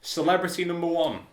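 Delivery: mock game-show host; announcer. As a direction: introduce a contestant like a host. Host announcing the first contestant.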